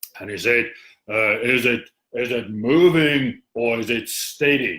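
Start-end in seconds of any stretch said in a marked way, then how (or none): 1.4-4.8 low, deep, slow, unhurried captain voice. Retelling a ship story, voicing the captain: deep captain voice. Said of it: "had a deep voice like that".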